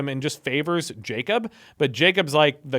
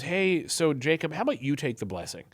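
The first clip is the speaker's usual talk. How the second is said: conspiring; 2 semitones lower, 8 dB quieter than usual. Retold or imitated. Mother plotting with her son in a back room, conspiring quietly. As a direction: quietly slip in a sly proposal. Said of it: "Isaac and Rebecca conspire in".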